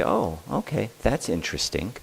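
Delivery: soft, unbothered calm; a calm parent shrugging off a shock. Shown as a demonstration. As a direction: keep it mild and unruffled. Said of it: "you always stay very calm".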